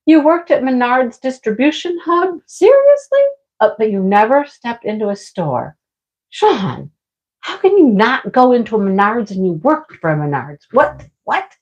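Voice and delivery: mock disbelief. Reading viewer's question in disbelief.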